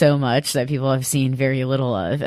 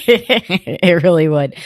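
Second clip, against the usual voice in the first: laughing agreement; 4 dB louder, slower than usual. Real, not acted. Laughing agreement at Ryan joke.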